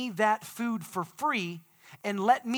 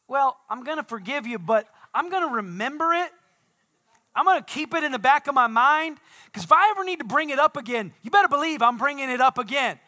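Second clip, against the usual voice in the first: higher, louder, with mounting insistence; grudging forgiveness; 7 semitones higher, 8 dB louder, faster than usual. Acted. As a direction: play someone pointedly refusing to let it go. Acts out grudging, conditional forgiveness.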